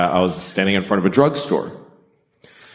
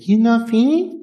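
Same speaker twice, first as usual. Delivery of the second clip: higher, gentle hint of a Japanese accent; subtle Japanese accent; 13 semitones higher than usual. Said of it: "No, it was subtle".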